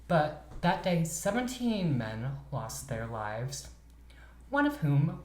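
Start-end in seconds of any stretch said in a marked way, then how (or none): 1.0-3.7 hushed whisper. Real, not acted. Solemn fact of deaths.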